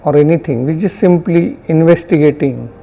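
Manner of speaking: unhurried meditation guidance with long pauses; guided meditation. Real, not acted. Teacher guiding students to notice sounds and body sensations, guided meditation. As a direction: guide them gently, phrase by phrase, leaving silences.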